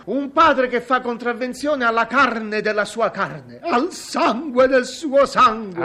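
slow, hammed-up lament; mock tragic. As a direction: declaim it like a wronged hero.

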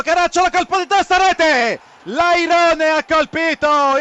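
excited goal call. Real, not acted.

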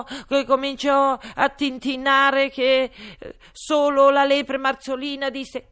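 high, strained pleading voice; high anxious hatter. Acted. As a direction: plead like a scared little man. (cappellaio ansioso)

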